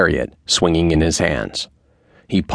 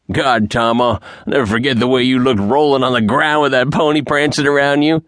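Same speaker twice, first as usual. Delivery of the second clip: higher, teasing voice of a laughing cowboy; amused ranch man; 8 semitones higher than usual. A narrator's reading. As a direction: rib him, still chuckling at his fall. Man on gatepost still laughing.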